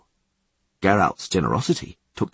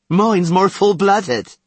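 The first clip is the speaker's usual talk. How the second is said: slow, high and loud; crude boasting guard; 10 semitones higher, 6 dB louder, much slower than usual. Acted.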